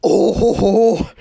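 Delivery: loud haughty cackle; scornful girl laugh; mocking laugh. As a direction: laugh down at her. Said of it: "Rebecca ha-, laughed".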